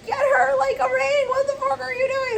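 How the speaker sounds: very high squealed mock panic; mock freak-out. Person flipping out at someone, in squealing mock panic.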